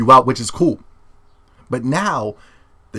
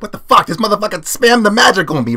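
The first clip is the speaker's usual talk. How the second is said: mock outrage; 8 semitones higher, 4 dB louder than usual. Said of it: "you're like".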